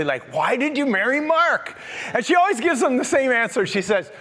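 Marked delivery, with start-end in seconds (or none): 0.3-1.8 mildly incredulous quoted question. Retold or imitated. People asking the pastor's wife why she married him, incredulously. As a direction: ask it in mock disbelief, a little raised. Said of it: "they say it sort of incredulously".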